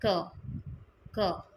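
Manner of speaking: क as a short, unaspirated "kuh"; changed final sound. Shown as a demonstration. Teacher showing how the final sound changes, sound demonstration. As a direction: say क as a plain k plus a short vowel. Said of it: "final sound इसका change होके".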